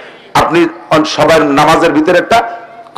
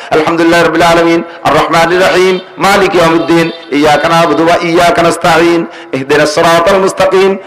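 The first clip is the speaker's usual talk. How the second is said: verse by verse. Shown as a demonstration. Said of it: "কিরাত এভাবে কেটে কেটে পড়বো".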